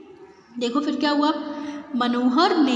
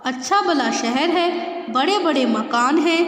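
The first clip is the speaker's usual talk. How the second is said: amazed; 4 semitones higher than usual. Acted. Mother defends the city, amazed.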